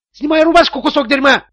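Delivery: high, loud shriek; shrieking at the trembling hostage. A narrator's reading. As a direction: screech it in a rage. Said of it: "взвизгнул Тони".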